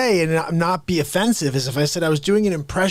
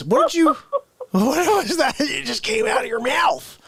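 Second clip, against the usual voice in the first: mock bewildered; 7 semitones higher than usual. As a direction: act baffled at nonsense words. Mock outraged confused questioning.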